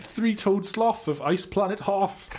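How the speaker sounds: laughing through a bad Jamaican accent. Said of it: "This is a terrible Jamaican accent".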